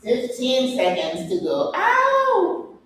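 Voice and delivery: strained shout through the burn; shaking with effort. Real, not acted. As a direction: push through the strain, yelling. Straining through plank hold.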